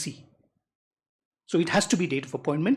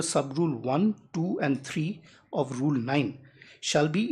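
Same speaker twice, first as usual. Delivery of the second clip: measured reading aloud of a legal rule; deliberate, unhurried reading to the judge; slow reading. Real, not acted. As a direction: read the rule out carefully, phrase by phrase. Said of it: "I'll read this slowly".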